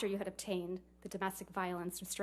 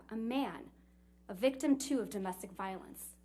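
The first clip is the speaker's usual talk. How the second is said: read-out quote; 4 dB louder than usual. Retold or imitated. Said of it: "quote, end quote".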